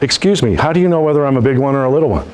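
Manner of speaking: fast, laughing comeback; quick comeback. Retold or imitated. Salesman firing a quick joke back at the rude prospect, fast and amused. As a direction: fire it back quickly with a grin. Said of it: "said back to him as quickly as I could get it out".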